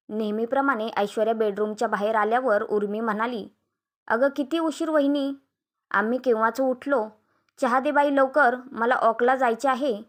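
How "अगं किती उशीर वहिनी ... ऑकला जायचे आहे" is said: mildly impatient sister-in-law, pitch lifted; अधीर तक्रार. Acted. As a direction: hurry her along with a complaint. नणंद वहिनीकडे चहा मागते. (अधीर, तक्रारीच्या सुरात)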